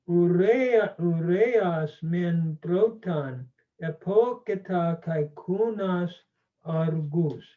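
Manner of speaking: slow, careful read-aloud of the Homeric Greek; slow measured reading, not in hexameter. Shown as a demonstration. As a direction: read each Greek word slowly and clearly. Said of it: "I'll just read it slowly".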